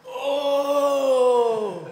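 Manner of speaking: sudden high loud "Oh!"; startled yelp. Retold or imitated. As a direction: yelp in shock as it slips. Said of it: "they were all like".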